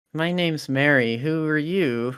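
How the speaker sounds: a hint of a shy little girl. Girl introduces herself to the doctor, lightly childlike voice.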